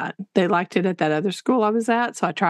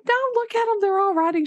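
high protest; 11 semitones higher, faster than usual. Retold or imitated. Protesting student's warning.

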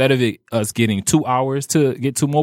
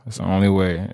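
ordinary delivery

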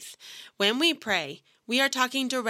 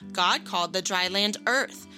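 put-on Bible reading to children. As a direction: read it like a children's Bible story. Reads Genesis to children.

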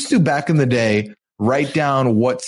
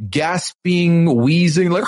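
imitating a wheezy howl; 4 semitones higher, slower than usual. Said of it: "howl at the end, and kind of did".

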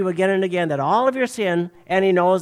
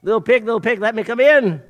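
wolf at the door; 4 semitones higher, 5 dB louder than usual. Acted. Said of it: "and he says".

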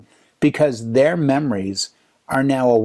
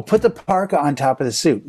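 ordinary talk

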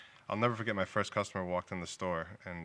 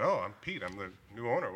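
cheery greeting; 3 semitones higher, 3 dB louder than usual. Retold or imitated. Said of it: "I said".

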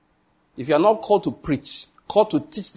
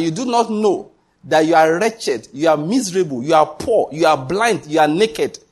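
"wretched, miserable, poor, blind, naked" each hammered with a punch; insistent, driving list with "poor" and "blind" hit hard; drilled in. Retold or imitated. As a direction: drill in each "you are" as a separate blow. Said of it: "He drilled it in".

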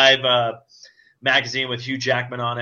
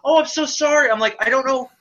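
higher, flustered apologetic babble; mock flustered Deadpool; 12 semitones higher than usual. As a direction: dither as if unsure what to do. Imitating Deadpool fighting the girl.

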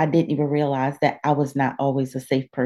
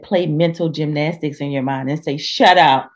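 Joyce Myers voice. Retold or imitated. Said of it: "in my Joyce Myers voice".

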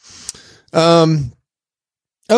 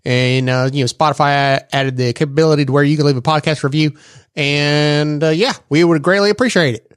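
a light auctioneer patter. Acted. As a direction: rattle it off like a country auctioneer. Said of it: "auctioneer voice".

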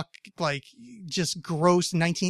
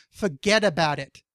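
put-on New Jersey accent; 3 dB louder than usual. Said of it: "I can't".

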